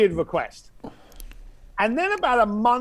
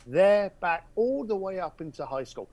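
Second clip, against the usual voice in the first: softer, a touch of hushed confiding; goes quiet; 6 dB quieter than usual. Retold or imitated. Caller confiding his childhood memory, quietly. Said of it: "He goes quiet".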